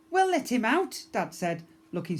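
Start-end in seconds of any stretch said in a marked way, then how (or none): 0.1-1.0 starstruck dad. Acted.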